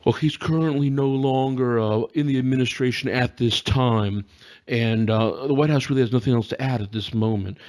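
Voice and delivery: lightly voiced press secretary; a hint of a flat briefing-room read; Sarah Huckabee Sanders impression. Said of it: "could you do your impression of her".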